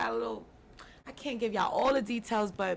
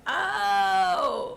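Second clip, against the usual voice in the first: excited oh; 9 semitones higher, 6 dB louder than usual. Real, not acted. Reacting to guest's hometown.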